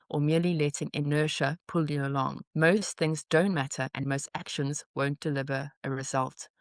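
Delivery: measured, even newsletter read; composed read-aloud with pauses between phrases. Acted. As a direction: read the passage out evenly and deliberately. Reads an emailed newsletter aloud.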